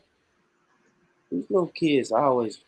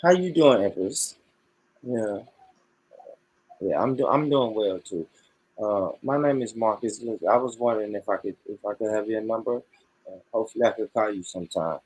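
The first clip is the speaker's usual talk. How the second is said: confident easy ladies' man; the take he calls perfect, smooth and confident; smooth pickup line; 2 semitones lower than usual. Pretend. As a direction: lean in smooth and sure. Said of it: "That was it".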